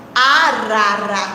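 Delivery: "Arara" low and slow, middle syllable held; drawn out. Shown as a demonstration. Teacher presents the next word to children, drawn out. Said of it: "tem a seguinte palavra".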